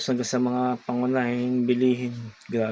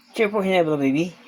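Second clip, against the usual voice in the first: coaxing pet voice; 5 semitones higher, faster than usual. Real, not acted. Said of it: "say hello, baby".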